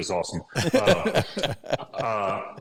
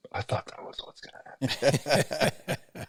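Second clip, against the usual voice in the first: laughing quote; 7 semitones higher, slower than usual. Retold or imitated. Retelling the healer's smiling reply.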